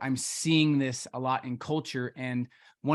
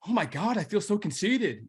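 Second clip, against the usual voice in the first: mock flustered girl; 6 semitones higher than usual. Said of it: "And she's like".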